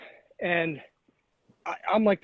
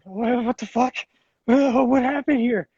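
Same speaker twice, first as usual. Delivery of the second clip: baffled; 5 semitones higher, slower than usual. Retold or imitated. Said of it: "holding the handle like".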